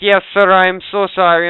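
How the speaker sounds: pleading customer-service apology, mildly put on; apologetic agent. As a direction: imitate an over-apologetic service rep. Acting apologetic food delivery agent.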